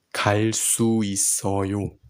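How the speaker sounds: fast, whispered practice of 갈 수 있어요. Shown as a demonstration. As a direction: breathe 갈 수 있어요 out quickly, no voice. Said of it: "teacher whispers the practice phrase".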